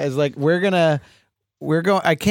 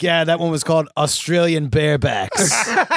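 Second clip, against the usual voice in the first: a light put-on foreign accent, not too far from his own voice; Chris Noth accent. Imagined guest recalling an old magazine, in a light put-on foreign accent. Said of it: "I just gave him that accent".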